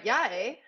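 "Yeah, eh?" rising at the end; questioning "eh". Shown as a demonstration. Guest showing host how to respond, "eh" rising as a question. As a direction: lift "eh" like a question mark in "Yeah, eh?". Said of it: "with a question mark".

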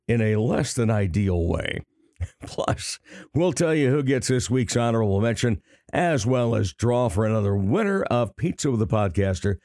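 hoarse, raspy throat; speaking through a raspy voice. Real, not acted. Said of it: "a bit of a raspy voice".

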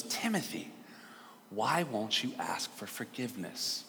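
exhausted. Retold or imitated. Worn-out teacher begging a stubborn boy, softly exhausted. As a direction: plead softly with no energy left. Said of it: "she's so exhausted".

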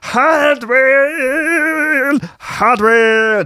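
high piercing call of the name; scream. Acted. A DJ screaming at an unconscious fellow DJ, high shriek. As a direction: shriek him awake. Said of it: "he screams".

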